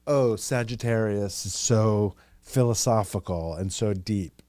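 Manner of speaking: slow, drawn-out mock profundity; mock admirers. People describing Sagittarius as philosophical, slow mock reverence. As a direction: lightly imitate people gushing, taking it slowly. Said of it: "it's funny how they say, they're always like".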